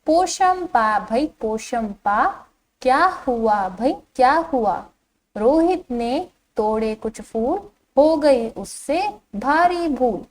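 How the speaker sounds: put-on slow, lilting children's poem reading; poem recitation. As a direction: read the verse out slowly for young pupils. Recites the first stanza again. (बच्चों के लिए लय में धीमा कविता पाठ)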